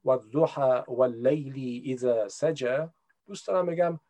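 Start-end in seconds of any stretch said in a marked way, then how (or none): 0.0-2.8 Quran verse in an attempted Arabic accent, slow. Shown as a demonstration. Speaker showing how they could recite in prayer, Arabic accent. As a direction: recite it slowly with Arabic pronunciation. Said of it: "سعی کنم لهجهٔ عربی به خودم".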